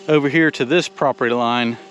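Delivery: breathless after shoveling; winded, catching breath between phrases. Real, not acted. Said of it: "Sorry, I'm out of breath".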